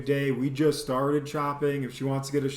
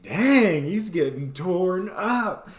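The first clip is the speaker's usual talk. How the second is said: loud, higher amazed "Dang"; shocked reaction; 5 semitones higher, 4 dB louder, slower than usual. Retold or imitated. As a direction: gasp it out, stunned. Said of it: "And I was like".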